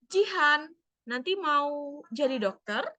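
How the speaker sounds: lightly voiced mother to her daughter; parent asking child. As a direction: ask the little one kindly about her future. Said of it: "Dia bertanya kepada anaknya".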